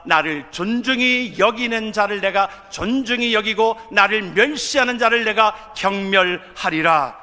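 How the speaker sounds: loud, emphatic pulpit delivery; full-force preaching. Real, not acted. Preacher urging the congregation to honour God, forceful preaching. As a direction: drive each phrase home to the congregation.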